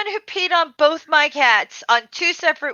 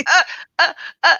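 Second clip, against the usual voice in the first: mock wordless stammer, pitched up; imitated sputtering; 5 semitones higher, 3 dB louder, faster than usual. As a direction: sputter like someone lost for an answer. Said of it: "It was just like".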